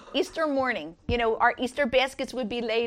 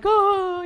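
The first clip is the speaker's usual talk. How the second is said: emotional gasp; 10 semitones higher, 9 dB louder than usual. Shown as a demonstration. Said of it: "like an emotional kind of thing".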